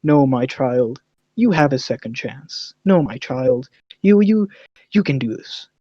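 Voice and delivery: soft, hushed, fatherly reassurance; lightly voiced wise old guru soothing a child; mock tender mentor. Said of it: "Do you think I was like".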